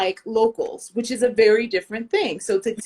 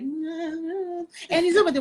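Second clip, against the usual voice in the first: put-on French accent; 7 semitones higher, slower than usual. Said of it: "You don't hear the accent until they're like".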